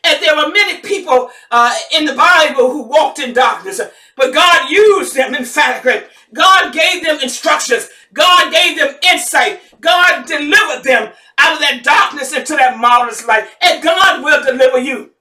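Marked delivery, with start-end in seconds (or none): 4.2-15.1 rousing gospel preaching; preaching at full force. Acted. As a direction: hammer each God home. Rising call-and-response preaching.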